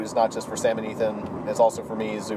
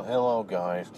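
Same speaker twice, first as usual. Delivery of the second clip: lightly voiced nasal dork; a hint of a nasal, dorky greeting; nasally Todd; 4 semitones lower, 4 dB quieter, slower than usual. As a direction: say hello as a slightly nasal nerd. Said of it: "He has a bit nasally of a voice".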